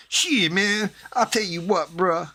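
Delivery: high, cocky wannabe voice; posturing wannabe tough guy; wannabe gangster. Retold or imitated. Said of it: "you know the guy".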